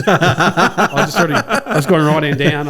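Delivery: loud, slow words through real laughter; high, helpless laughing delivery; laughing while telling. Real, not acted. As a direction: crack up at your own mishap. Laughing at own mailbox crash.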